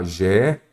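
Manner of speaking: "geleia" split as ge... lei... a, with long pauses; slow teacher's breakdown of "geleia", ge / LEI / a; syllable-by-syllable demo. Shown as a demonstration. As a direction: sound out "geleia" in three separate syllables. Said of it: "Vamos lá".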